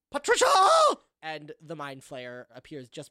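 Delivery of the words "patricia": high, loud theatrical call; yelled summons. Acted. Ghost madam summons her servant, yelling. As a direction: holler the name, stretching the end. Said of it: "she claps and yells".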